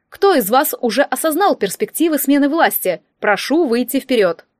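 rally them forward; commanding villain. Acted. Instructor calls for volunteers.

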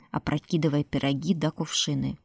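ordinary delivery, nothing marked

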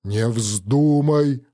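slow low warning through teeth; through gritted teeth. Acted. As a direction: hiss it out slowly, teeth clenched. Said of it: "процедил Атари".

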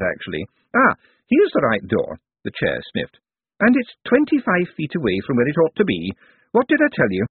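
put-on an old wizard airing his woes; elderly wizard complaining.

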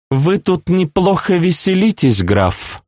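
icy voice. A narrator's reading. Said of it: "ледяным голосом заметила Флоранс".

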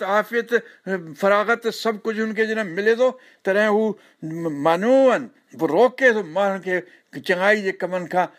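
normal talking voice

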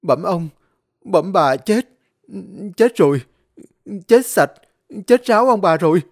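loud, high panicked wailing; panicked cry. Acted. Servant crying out to master and mistress in panic. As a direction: blurt the terrible news in panic.

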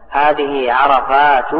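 عرفات ending in plain "-tu"; slow demo, say عرفات as "arafaatu"; damma without tanween. Shown as a demonstration. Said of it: "يعرب إعراب ما لا ينصرف". (عرفات بضمة دون تنوين)

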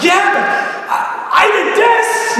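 high-pitched defensive mock yell; retold yelling back. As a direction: act out yelling back, voice jumping way up. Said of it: "And I yell back at her".

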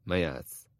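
ordinary delivery, nothing marked

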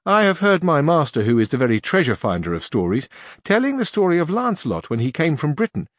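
lightly voiced Sancho. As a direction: plead sweetly for his donkey.

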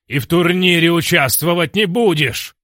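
loud, high angry shout; furious bark. A narrator's reading. Dargon Quint bars the hero from the tournament, furious shout. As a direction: shout him down in rage. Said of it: "рявкнул он".

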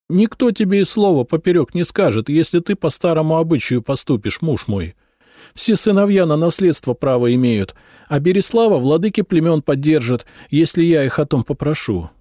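high, persuasive wife; wife's voice. A narrator's reading. Wife urging her husband to split the inheritance, high and coaxing. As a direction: coax the husband toward the old custom.

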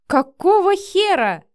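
high, loud, slow furious outburst; enraged man yelling at a rival woman. Acted. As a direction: explode at her in rage. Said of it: "привела его в ярость".

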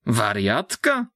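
slow, disbelieving rising question; stunned question. Acted. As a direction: echo the word in shock. Man shocked by the news. (zdumione, powolne pytanie)

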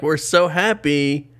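high, eager king; mock-excited King Henry; pumped king. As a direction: gush like a thrilled king. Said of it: "He's like".

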